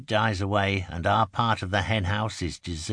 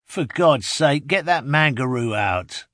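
loud, raised, exasperated call; 6 semitones higher, 7 dB louder than usual. A narrator's reading. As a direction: shout an urgent order across the deck. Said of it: "calls Bill Hutchings".

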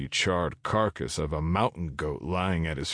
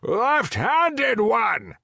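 louder shout, coming nearer; walking closer; 6 dB louder, much slower than usual. Acted. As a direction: call again as you draw closer, louder. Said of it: "The voice grew louder".

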